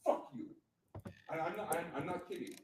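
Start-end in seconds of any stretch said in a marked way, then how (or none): 0.1-0.5 加重音地骂出Fuck you，带着反抗; defiant retold shout. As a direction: punch out Fuck you in mock defiance. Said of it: "and I said".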